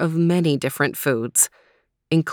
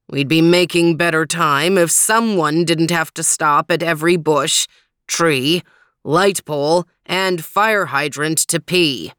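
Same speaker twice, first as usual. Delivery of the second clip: pointed, indignant retort; 4 dB louder than usual. Acted. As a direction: throw the complaint back, leaning on each item. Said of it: "retorted Overton".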